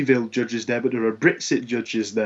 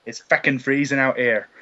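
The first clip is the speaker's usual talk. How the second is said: put-on Irish accent. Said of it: "I don't know what accent that was".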